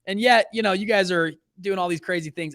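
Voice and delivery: high, loud mock outrage at dad; confronting dad. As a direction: play the betrayed son, indignant. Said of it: "I was like".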